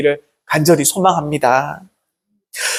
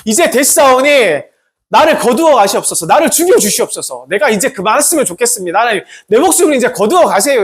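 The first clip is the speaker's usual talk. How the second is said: mildly raised, weary prophet's plea; pleading cry; 3 semitones higher than usual. Retold or imitated. Elijah begging God to take his life, imitated pleading cry. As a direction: cry out to God to end it, lightly acted. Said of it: "거기서 이렇게 외칩니다".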